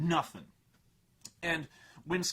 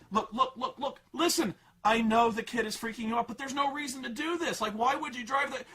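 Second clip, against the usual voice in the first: laughing scolding; 6 semitones higher than usual. Retold or imitated. Dad scolding, laughing teller.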